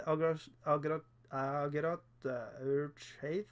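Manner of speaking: slow, halting stumbles over "Agrat"; struggling to pronounce it. Real, not acted. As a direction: trip over "Agrat" on repeated tries, then drag out "Urge Haze". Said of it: "that's really difficult to say".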